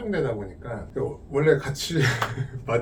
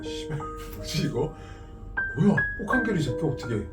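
shocked disbelief. Retold or imitated. Retold shock at friend skipping training.

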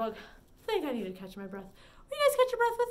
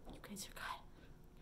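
breathy whispered praise; hushed praise; 20 dB quieter, slower than usual. Real, not acted. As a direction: whisper it softly after the breath. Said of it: "after held breath".

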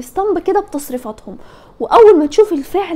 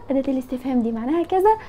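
quick repeat; 6 dB quieter, faster than usual. Shown as a demonstration.

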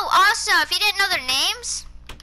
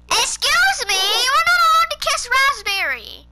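shocked scold; 7 semitones higher than usual. Real, not acted. Scolding the dogs mid-game.

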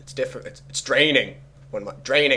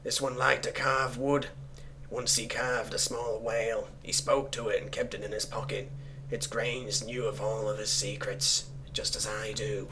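measured reading, sinking quieter; story narration; 4 dB quieter than usual. Acted. Player reading an eerie note aloud, subdued storytelling. Reads cultist notes aloud.

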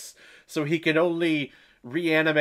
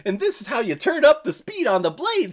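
cheery Elizabeth; 8 semitones higher, 4 dB louder than usual. Retold or imitated. Voicing happy Elizabeth demonstrating.

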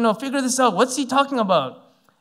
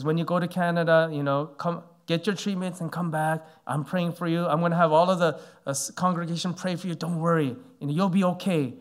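softer, like a father to a son; really kindly; 4 semitones lower, 5 dB quieter than usual. Retold or imitated. Senior pastor reassuring the young pastor before treatment, soft and kind. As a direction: reassure him gently, quietly. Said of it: "he says that really kindly".

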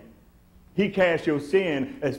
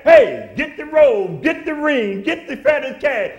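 excited calling; 10 semitones higher, 10 dB louder, slower than usual. Retold or imitated. Father calls for the feast.

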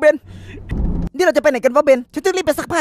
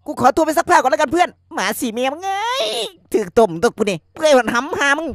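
laughing through tears; 3 dB quieter than usual. Real, not acted. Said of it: "น้ำตาไหลเลยสัตว์".

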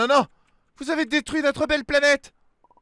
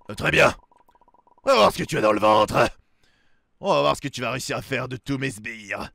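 much lower, menacing villain; booming echoing villain monologue; 12 semitones lower than usual. Acted. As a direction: threaten him in a low rumble. Villain accepts the fight.

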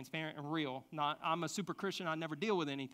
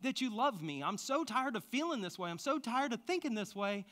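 weary prayer; 4 semitones higher than usual. Retold or imitated. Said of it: "I said".

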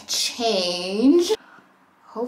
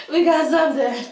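higher, louder, thrilled; excited; 7 semitones higher, 7 dB louder than usual. Real, not acted. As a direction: cheer that it finally caught. Fire finally catches.

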